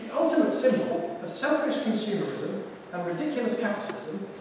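a know-it-all fridge explaining itself; lightly voiced posh fridge. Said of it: "it's also got a rich accent".

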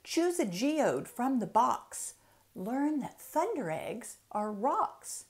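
lilting, rhythmic picture-book reading; reading to children. Acted. Author reading her book aloud to children, lilting storytime. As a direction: read each rhyme like a bouncy storytime.

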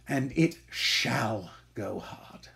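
menacing whisper. Acted. Scene: Shylock quietly vows to surpass the villainy he was taught. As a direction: promise revenge softly. Closing vow of vengeance.

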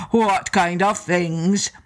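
slow, lightly voiced giant agreeing; a hint of a lumbering giant; giant's voice. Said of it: "he asked".

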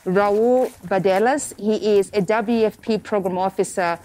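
muffled, talking through a face mask. Real, not acted. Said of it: "You're going to hear my voice muffled".

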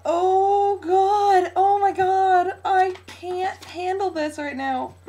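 high, loud, tearful wail; drawn-out, crying exclamations of excitement; freaking out. Real, not acted. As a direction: wail with overwhelmed joy. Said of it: "I'm, like, freaking out".

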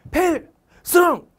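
high, drawn-out shouted salute; shouted military salute. Retold or imitated. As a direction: bellow it like a rigid young marine. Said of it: "왜 이렇게 소리 지르면". (우렁찬 경례 구호)

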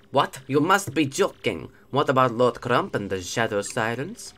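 lightly attempted German villain accent; disbelieving boss in a shaky attempt at German. Grodus questions his underling about Crump, rough German accent. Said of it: "let's make Lord Grodus, uh, German".

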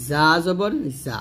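slow careful জা. Shown as a demonstration. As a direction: stretch the জা sound. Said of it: "জিহ্বাটা নিচের দাঁতে লাগাবেন".

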